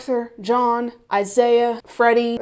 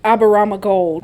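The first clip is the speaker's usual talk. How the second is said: "Aberama Gold" in a put-on accent, louder; 5 dB louder than usual. Shown as a demonstration. Recapper checking the name "Aberama Gold", putting on an accent. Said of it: "I have to say it with an accent".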